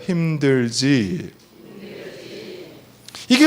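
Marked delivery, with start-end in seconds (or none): 0.0-1.3 gentle empathy. Shown as a demonstration. Pastor showing the congregation how to comfort someone, slow and tender. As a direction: ask it like sitting down beside them. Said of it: "따라해보세요".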